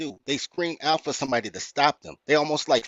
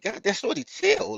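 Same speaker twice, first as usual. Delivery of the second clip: rising, pleading higher; exasperated, pitched-up plea; 9 semitones higher, 4 dB quieter than usual. Retold or imitated. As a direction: beg her to stop, voice climbing. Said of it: "But I'm like".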